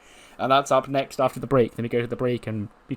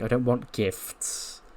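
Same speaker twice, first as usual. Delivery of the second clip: slow, flat refusal; 5 dB quieter, much slower than usual. Acted. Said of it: "Bailey's like".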